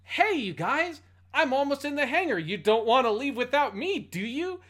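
high, loud, cheery dub-actor voice; hammed-up cheesy pilot. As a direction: read it like a bad English dub line. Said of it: "he says".

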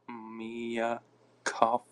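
"Mia Cuff", with the name drawn out and broken off; stumbling pronunciation. Real, not acted. Failing to read out a name, stumbling pronunciation. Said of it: "Can't even say that".

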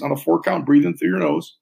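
calm, paced counting with long pauses; slow breath counting. Shown as a demonstration. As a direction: guide the breath gently and slowly. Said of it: "I'll walk us through all these".

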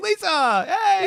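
very high, drawn-out excited hail; gushing greeting. Retold or imitated. Bar owner greets his regular customer, gushing. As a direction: imitate an owner squealing hello to a favorite regular.

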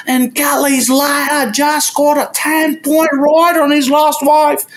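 put-on high, slow Australian announcer accent. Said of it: "com aquele sotaque australiano".

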